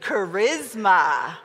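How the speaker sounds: slow "Charisma." with sass; sassy, slowed "Charisma."; with attitude. Shown as a demonstration. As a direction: drag out "Charisma." with a bit of attitude. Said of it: "say that with a little bit of attitude".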